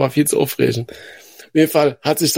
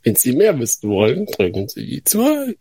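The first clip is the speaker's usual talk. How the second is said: phone menu voice; slower than usual. Pretend. Mock hotline menu.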